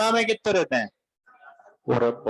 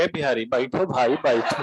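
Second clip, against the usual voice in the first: lower, soothing sit down; calming the student; 7 semitones lower than usual. Retold or imitated. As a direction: settle him down gently. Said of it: "हम बोले". (शांत करते हुए, बैठ जाओ भाई)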